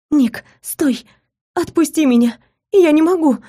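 high, desperate cry to be released; shouting to be let go. Acted. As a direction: struggle and yell out, pitch climbing high. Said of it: "закричала громко".

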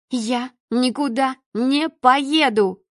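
slow, defiant, every word set down; stubborn refusal. Acted. Daughter defying her father, slow and stubborn. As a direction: plant your feet and refuse.

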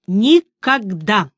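slow, drawn-out refusal; flat refusal. A narrator's reading. Sorceress refuses the witcher's apology, slow drawn-out no. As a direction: drag out the refusal coldly.

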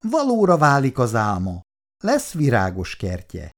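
solemn. Acted. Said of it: "kezdte ünnepélyes hangon".

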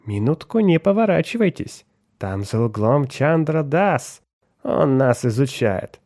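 wheedling. Acted. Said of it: "заговорил льстивым тоном".

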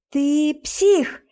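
angry shout. Acted. Narrator screams at Brian.

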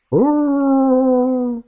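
put-on high drawn-out howl of an old wolfhound; dog howl. A narrator's reading. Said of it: "отозвался на его призыв бывший волкодав Буян".

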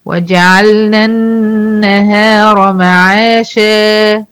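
slow recitation holding the final alif; teacher recites the verse to show the madd; Quran recitation. Shown as a demonstration. تلاوة بطيئة مع مد الألف. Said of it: "شا أهي".

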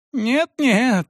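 high frantic yelled refusal; desperate cry. A narrator's reading. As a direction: shout him down. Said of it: "снова заорал бывший управляющий".

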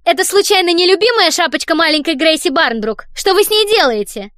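high, loud, put-on childish lisp; babyish voice. Don fakes innocence about the little girl's hat, babyish. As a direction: coo like an innocent little kid. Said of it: "сюсюкающим, нарочито детским голосом".

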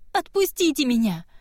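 high, pleading shout. Acted. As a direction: yell to be let go. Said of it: "Кива кричала и пиналась".

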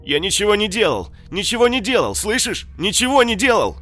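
high, loud panicked screeching; shrieking in panic. Acted. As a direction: squeal like a terrified man. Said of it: "Верещал мародёр". (визг в панике)

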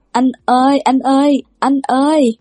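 wailing calls. A narrator's reading. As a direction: howl it like summoning a ghost. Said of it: "Bên Bạch Tân Vũ hãy còn gào".

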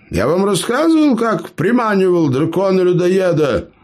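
high, bragging storyteller voice; boastful gnome. Acted. Gnome brags to clanmates, high boastful voice. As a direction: brag to the wide-eyed listeners. Eber tells his tale.

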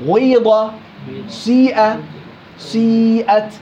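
غيض and سيئة with a short rounded start; slow Quran-style demo; ishmam of ya. Shown as a demonstration. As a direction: begin rounded, then the i. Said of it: "عبر بالضم بالواو".

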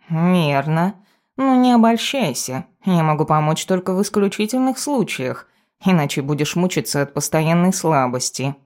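lightly voiced pompous cat; a touch of a know-it-all familiar; cautioning cat familiar. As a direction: caution the owner with a feline lilt.

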